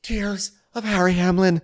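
high, melodramatic sorrow; mock lament. Podcaster mourning Harry Hamlin's tears, mock lament. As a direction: lament it, slowing down at the end.

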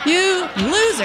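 high mocking loser. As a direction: taunt it up high, teasing. Repeated mocking insult.

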